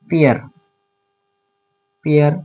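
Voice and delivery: slow, drawn-out pair as iə; teacher's model word. Shown as a demonstration. Teacher models the vowel for students, slowly. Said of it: "Sound of Vowel".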